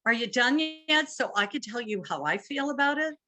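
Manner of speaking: mock the partner who can't wait to talk; impatient interrupting. Imitating an impatient spouse cutting in, high and fast. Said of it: "they always say".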